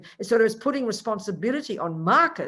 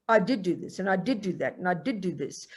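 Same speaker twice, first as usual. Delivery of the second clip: mild guilt-ridden mutter; guilty brooding; 2 semitones lower than usual. Retold or imitated. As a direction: list your misdeeds to yourself with a heavy heart. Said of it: "With guilt, you look in the past and you go".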